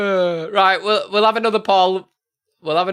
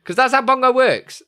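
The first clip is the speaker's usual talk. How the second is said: emphatic amused aside; 9 semitones higher, 5 dB louder than usual. Real, not acted.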